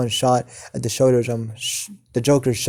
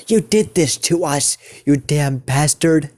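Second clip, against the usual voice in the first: mild angry yell, pitched higher; 3 semitones higher than usual. Acted. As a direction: raise the pitch in mock anger. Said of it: "he says this in a more higher pitched voice".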